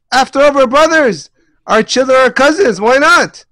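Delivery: friendly Esav. Retold or imitated. Esav urges Yaakov to mix families, lightly hammed coaxing. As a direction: win him over as a brother. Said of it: "That's what Esav comes and says".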